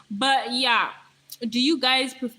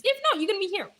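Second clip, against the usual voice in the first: mock sermon climax; 10 semitones higher, faster than usual. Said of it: "I'm already preaching to you the law".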